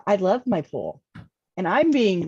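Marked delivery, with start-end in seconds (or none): 0.1-1.0 playful, lightly sarcastic; sarcastically funny. Retold or imitated. Joking about pool photos he sent, sarcastically funny. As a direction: tease with mock devotion. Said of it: "sarcastically funny".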